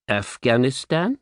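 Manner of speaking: a rising, disbelieving repeat; he can't quite believe the word; incredulous echo. Retold or imitated. Hearing the destination from his agent, incredulous. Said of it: "pausing a moment to digest".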